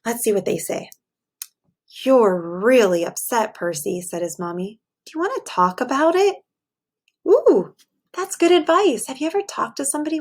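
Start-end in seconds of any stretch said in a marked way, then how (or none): 2.0-6.4 expressive bedtime story read; reading to children. A narrator's reading. Teacher reading a picture book to her class, storytelling voice. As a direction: read it aloud to a class of little kids.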